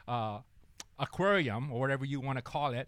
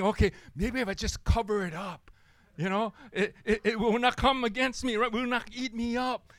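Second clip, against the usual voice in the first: higher, louder panicky mouse voice; frantic mouse; 7 semitones higher, 4 dB louder than usual. Acted. Mouse burying the snake in sawdust, frantic and high. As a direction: hurry it like a scared little mouse.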